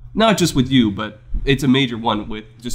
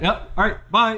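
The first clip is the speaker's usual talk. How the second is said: mock brush-off; 10 semitones higher than usual. Voicing the brush-off.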